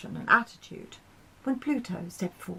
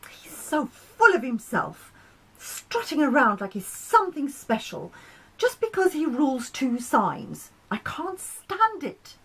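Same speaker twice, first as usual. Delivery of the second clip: higher, indignant complaining voice; frustrated moon; 6 semitones higher than usual. Acted. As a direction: rant like a sulky moon, rising to a high wail. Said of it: "voice was filled with frustration".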